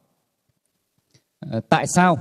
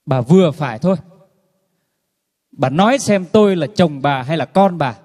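a mild mock shout at the nagging wife; retold yell; 2 semitones higher than usual. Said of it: "thì ông mới quát lên". (chồng quát vợ, giọng to hơn một chút)

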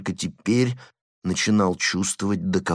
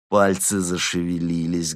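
ordinary delivery, nothing marked

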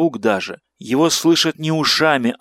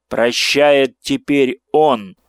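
inhuman voice; 4 dB louder, much slower than usual. Acted. Monstrous figure speaks.

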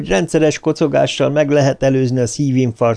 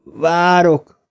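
higher, far-off call back; faint distant answer; 6 semitones higher than usual. A narrator's reading. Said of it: "Bill hangja még halkabban érkezett".

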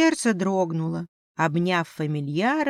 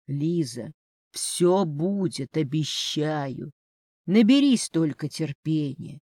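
мягко, успокаивающе; 2 semitones lower than usual. Acted. Князь тихо утешает Лизу.

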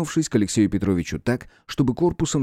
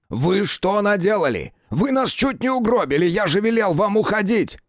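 much higher, outraged tirade; angry outburst; 10 semitones higher than usual. A narrator's reading. Detective berating Rudnev after the blast, outraged. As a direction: scold him for nearly killing them.

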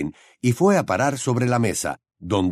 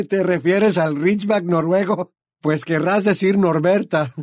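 higher, laughing voice; amused; 8 semitones higher than usual. A narrator's reading. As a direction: still chuckling. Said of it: "muerto de risa".

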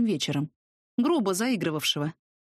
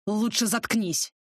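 slow, heavy threat; menacing bark; slower than usual. A narrator's reading. Sokol threatens the blond pinned to the wall. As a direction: pin him and growl it out. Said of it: "рявкнул".

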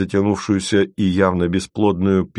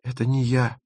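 small, high-voiced denial; objecting; 6 semitones higher, 3 dB quieter than usual. A narrator's reading. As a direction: deny it mildly, pitched up. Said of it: "возразила Маша".

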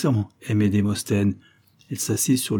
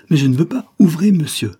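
much louder and higher, panicked shout; protesting shout; 7 semitones higher, 8 dB louder than usual. Acted. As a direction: shout at him to open the door. Locked in, protesting.

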